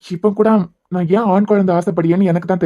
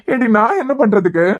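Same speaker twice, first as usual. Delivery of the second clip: laughing; 3 semitones higher than usual. Acted. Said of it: "நக்கல் அடிச்சிட்டு இருக்கீங்களா".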